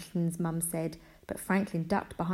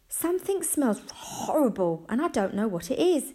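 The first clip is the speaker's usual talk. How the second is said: high, flustered, emphatic mum; fretting aloud, pitch jumping high; panicked mum; 7 semitones higher, 4 dB louder than usual. A narrator's reading. Mum fretting to the family about a bad smell, panicked. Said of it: "looked around in a panic".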